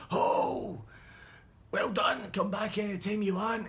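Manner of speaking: high, loud sarcastic praise; mock praise. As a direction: lull them with fake kindness. Bully fakes praise to band.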